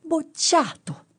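high, slow, drawn-out round-mouthed yell; shouted verdict. Acted. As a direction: bellow the fail like a furious examiner. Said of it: "fece la bocca tonda tonda e gli gridò". (grido lento e acutissimo a bocca tonda)

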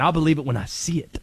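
lightly voiced low character; sceptical sign-off. Closing his conspiracy rant in character.

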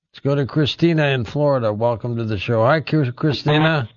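ordinary talk, nothing marked

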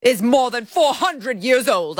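lightly put-on British accent, nose in the air; a hint of a haughty British accent; mock British accent. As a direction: read it like a snooty British official. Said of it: "why he turned into a British person".

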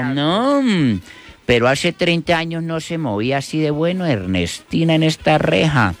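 a hint of an astonished grandpa; joke old man.

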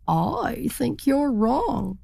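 high, slow, stubborn insistence; stubborn turkey. Acted. Turkey slowly contradicts the wee bird, high and stubborn. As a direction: drag it out, unconvinced.

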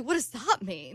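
put-on amateur British accent, asking. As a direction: imitate a puzzled British man. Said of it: "who's saying what when you do it".

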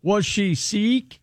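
slow, deadpan pun; slow, deliberate pun on sick; slow pun delivery. Pretend. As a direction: drag it out to land the joke. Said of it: "very nice".

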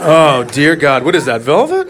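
slow, drawn-out hammed-up delight; mock bliss. Comedian as boy discovering couch cushions, mock blissful. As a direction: savor it, then rise into the question.

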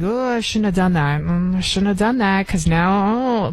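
mock regret. Acts out her regret afterwards.

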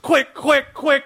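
mock panic.

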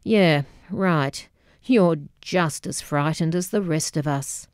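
put-on dry Scottish accent, deadpan; flinty Scottish accent, bone-dry delivery. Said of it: "Scottish accent honed to a deflating pinpoint, deadpanned".

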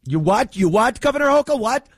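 you can't believe what you heard; mock disbelief. Mock reporter shocked at governor.

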